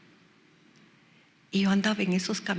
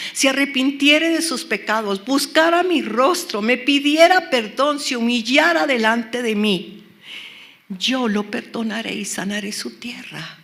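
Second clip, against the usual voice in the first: loud, building preacher's recitation; impassioned, raised-voice Bible proclamation; proclaiming scripture; 3 semitones higher, 6 dB louder than usual. Acted. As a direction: drive each clause of the verse harder. Preacher proclaims a quoted scripture verse.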